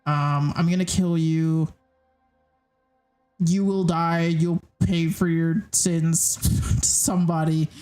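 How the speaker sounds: a hint of a Russian thug spitting threats; half-hearted Russian accent threats; angry Russian accent. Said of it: "in angry Russian accent".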